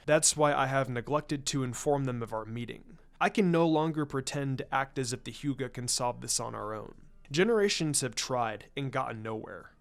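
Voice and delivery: a hint of a grave clan patriarch, measured and formal; lightly voiced Hiashi. Hyuga head confiding in Shikaku, lightly voiced and grave. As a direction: speak as a proud head of clan admitting defeat.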